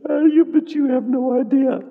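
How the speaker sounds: high, loud, flustered protest; flustered sinner. Retold or imitated. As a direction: play the embarrassed sinner brushing it off.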